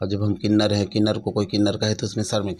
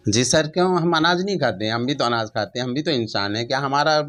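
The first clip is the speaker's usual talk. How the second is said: higher, louder, insistent rhetorical questions; real spirited protest; 4 semitones higher, 6 dB louder than usual. Real, not acted. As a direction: push back with raised, emphatic questions. Animated rhetorical retort to personal question.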